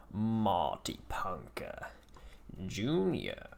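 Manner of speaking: slow, unvoiced whisper of the name. Real, not acted. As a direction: breathe the name out slowly. Repeats opponent name under breath.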